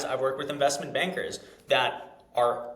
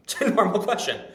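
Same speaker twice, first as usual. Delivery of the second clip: laughing; 7 semitones higher, 5 dB louder than usual. Real, not acted. Laughs while correcting listener.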